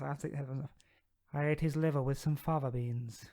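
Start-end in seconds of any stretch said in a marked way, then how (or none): 1.3-3.3 slow, hissing Hannibal Lecter. Acted. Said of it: "it's usually like this".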